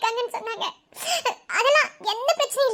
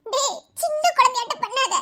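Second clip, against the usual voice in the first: laughing tease; 3 semitones higher, slower than usual. Acted. Wife teases crying husband.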